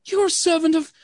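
high, loud spirit voice; a booming forest spirit calling out; unearthly voice. Acted. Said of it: "this spirit's voice calls out".

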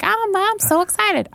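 squeaky high excited turtle; little high-pitched turtle voice. Shown as a demonstration. Describing his voice, demoing the turtle's high-pitched excitement. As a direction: pitch way up, bubbly and eager. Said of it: "this little high pitch".

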